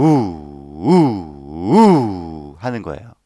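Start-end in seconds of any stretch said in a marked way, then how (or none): 0.0-1.7 short pushed 우 from the belly; one diaphragm kick on an oo; sharp oo pulse; breathy pulse. Shown as a demonstration. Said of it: "입으로 우".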